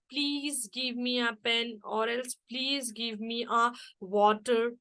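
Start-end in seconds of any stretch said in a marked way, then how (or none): 0.1-1.8 slow, gentle polite asking; calm request. Shown as a demonstration. Teacher showing students how a request sounds, slow and calm. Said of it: "calm tone. It means request". 2.5-4.7 slow, polite asking; calm request. Shown as a demonstration. Teacher giving students another example request, slow and calm. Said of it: "calm tone. It means request".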